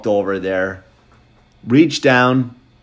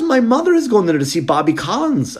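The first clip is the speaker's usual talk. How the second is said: cop voice, higher; 11 semitones higher than usual. Retold or imitated. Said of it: "he goes".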